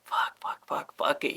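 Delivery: whispered nervous curses. Retold or imitated. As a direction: psych yourself up in a whisper. Nervous muttering before leaving jail.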